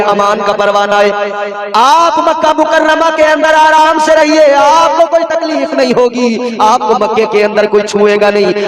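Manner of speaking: high, level preaching chant with soaring bursts; chanted storytelling that swells to a ringing cry; intoned sermon narration. Acted. Intoned sermon narration, rising to cries.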